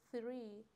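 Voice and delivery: three said apart with a voiceless "th" onset. Shown as a demonstration. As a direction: model the unvoiced "th" starting three.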